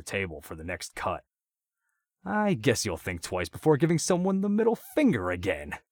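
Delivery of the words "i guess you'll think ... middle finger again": much higher, louder, gleeful maniac cackle; laughing. A narrator's reading. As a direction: taunt him through crazed laughter. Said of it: "Andrews said as he laughed".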